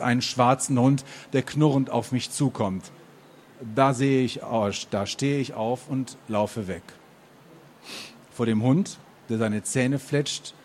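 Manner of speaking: earnest literary reading with animated dialogue; story narration. A narrator's reading. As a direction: read the first-person story aloud, phrase by phrase. Reads the novel aloud.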